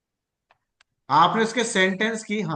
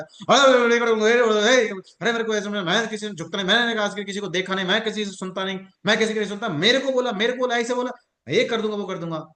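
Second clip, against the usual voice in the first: imitating angry grumbler; 2 semitones higher than usual. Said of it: "कोई आदमी गुस्सा करते आता है, बड़बड़ाते".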